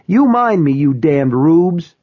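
high, loud scolding holler; high-pitched shout, stretched out at the end; carny woman shouting. A narrator's reading. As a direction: shout down a rowdy crowd as the carny. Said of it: "she shouted".

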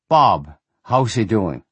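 put-on a slow, worried German accent; a light German accent from a weary father. Rabbi asks the teacher about his son, in a German accent. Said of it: "He had a German accent".

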